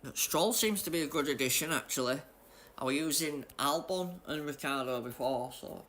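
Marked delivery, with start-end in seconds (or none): 2.8-5.8 while sipping a drink. Real, not acted. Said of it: "I'm just drinking my coffee".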